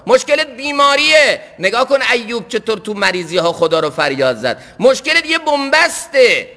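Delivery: high, punched sermon refrains; impassioned preaching. Real, not acted. Preacher pointing worshippers to the prophets' prayers, impassioned. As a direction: call out each trouble, then ease into its answer.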